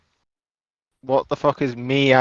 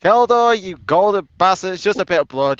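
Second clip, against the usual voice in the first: mock yell; 5 semitones higher than usual. Mock yelling at fellow character.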